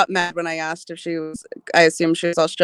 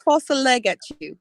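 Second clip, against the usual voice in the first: attempted Australian accent; 4 semitones higher than usual. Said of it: "it sounded very British".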